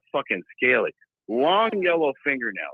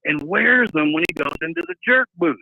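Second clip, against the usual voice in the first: higher, louder, lightly voiced clerk; 4 semitones higher, 3 dB louder than usual. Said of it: "he said".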